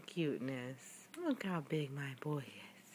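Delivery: soft, hushed whisper of admiration; tender whispered pride. Real, not acted. Parent murmurs admiring the baby.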